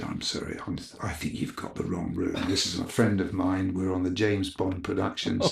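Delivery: put-on calm the guards down in a polite English accent; posh English accent. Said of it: "in his best English accent".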